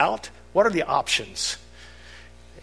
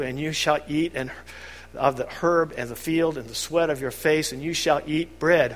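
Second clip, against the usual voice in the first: lightly raised, measured pronouncement; solemn scripture reading. Acted. God sentencing Adam in court, solemn. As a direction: read the curse like a judge.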